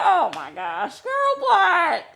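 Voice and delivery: high-pitched, laughing disbelief; shocked squeal. Retold or imitated. Shocked reaction to friend's reveal.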